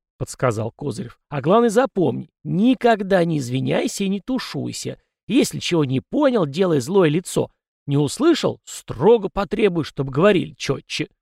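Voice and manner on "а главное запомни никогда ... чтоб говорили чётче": put-on high, cranky old ghost; a fussy old spirit lecturing. Ghost Kozyrev's voice. (ворчливый старый призрак)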